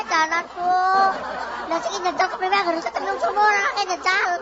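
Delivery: high-pitched, upset tirade; distraught scolding. Acted. Mother berating her husband for leaving the child behind, distraught scolding.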